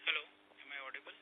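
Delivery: faint, distant line; barely audible. Real, not acted. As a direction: voice far off and faint. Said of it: "Your voice is very faint".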